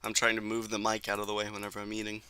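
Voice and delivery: talking while chewing dinner; mouth full. Real, not acted. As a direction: speak through a mouthful of food. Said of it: "I don't know if you can hear me chewing".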